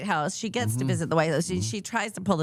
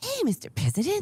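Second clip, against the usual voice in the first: put-on acted teen girl voice, higher; 11 semitones higher than usual. Contrasting how Jan Brady would greet the President: Jan Brady voice. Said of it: "Jan would be".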